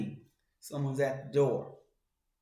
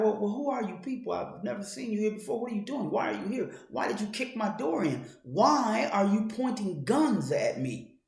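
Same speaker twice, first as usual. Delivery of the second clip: higher and fast, alarmed questions to intruders; anxious questioning; 5 semitones higher than usual. Acted. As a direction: ask them, scared and rushed, why they are here. Homeowner questions armed intruders.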